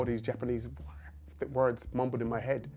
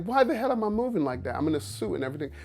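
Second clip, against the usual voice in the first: baffled; 5 semitones higher, faster than usual. Retold or imitated. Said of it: "I'm like".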